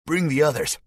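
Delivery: loud barked order, pitched high; commanding shout. Acted. Spike ordering his soldiers, shouted high. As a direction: captor calling out to his men, loud.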